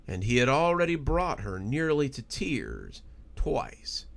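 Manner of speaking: measured storyteller reading a spooky tale; story narration. A narrator's reading. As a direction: draw listeners into the story, unhurried. Reads a spooky story aloud.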